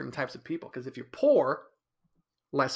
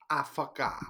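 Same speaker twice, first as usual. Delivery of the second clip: quieter mock airhead voice; softer ditzy girlfriend voice; 4 dB quieter, slower than usual. How his girlfriend talks in his head, softer mock voice. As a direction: murmur it like an airhead. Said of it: "That's how she talks in my head".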